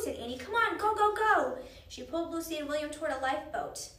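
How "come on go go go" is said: high, loud hurrying shout; pressing, rapid-fire commands; urgent urging. A narrator's reading. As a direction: shout them along. Annie urges them toward lifeboat.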